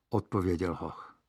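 plain reading voice

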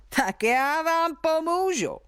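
a mild laughing threat from the giant; giant chuckling. A narrator's reading. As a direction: giant teasing the hiding villagers. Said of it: "zasmál se obr".

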